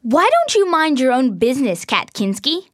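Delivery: put-on snide girl Laura. Laura snapping back at Kat before the other girls, snide. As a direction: put her down in front of others. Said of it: "said Laura".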